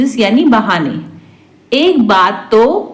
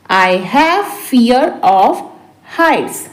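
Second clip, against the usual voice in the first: deliberate, for learners; slow repeat; slower than usual. Shown as a demonstration. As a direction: pause before the last word. Teacher repeats translation word by word. (धीरे-धीरे, रुककर)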